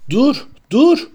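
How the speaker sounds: high, loud desperate cry; shouting. A narrator's reading. Harry shouts at Hagrid to stop, desperate. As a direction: yell for him to stop. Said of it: "diye bağırdı Harry".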